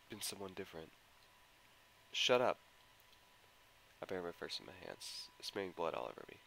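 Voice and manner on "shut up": loud sharp shout at her own thoughts; shouted shut up. Acted. To the voice in her head: loud angry shout. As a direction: snap it out loud and high.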